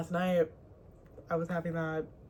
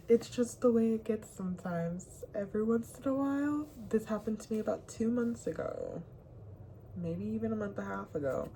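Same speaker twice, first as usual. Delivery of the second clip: ordinary talk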